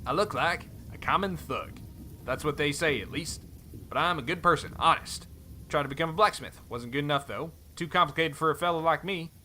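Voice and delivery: put-on light cowboy accent, friendly; easygoing Western cowboy accent. Helm reminds Thorn they travelled together, cowboy accent. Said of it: "cowboy accent".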